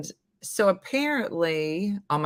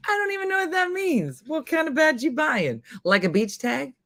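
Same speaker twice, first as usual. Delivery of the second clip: much higher, fast, incredulous; puzzled disbelief at the badge; baffled; 8 semitones higher than usual. Real, not acted.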